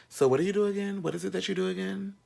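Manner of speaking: high, snooty mock of the roommate; mocking a condescending housemate. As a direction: look down your nose at the new roommate. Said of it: "he was so condescending".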